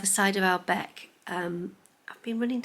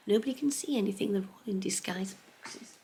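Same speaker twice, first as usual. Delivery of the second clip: conspiratorial whisper; 5 dB quieter than usual. Real, not acted. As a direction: whisper so nobody hears. Secret about presents.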